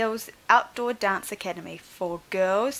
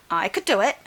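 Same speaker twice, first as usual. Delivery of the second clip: put-on louder eager boy's shout; 7 dB louder than usual. Jack offers to lift the dinosaur, eager shout. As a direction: call out the offer proudly. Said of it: "Jack shouted".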